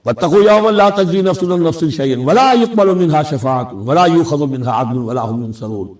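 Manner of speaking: rapid, fluent Arabic recitation; Quran recitation. Acted. Teacher citing a verse from Surah Baqarah, brisk recitation.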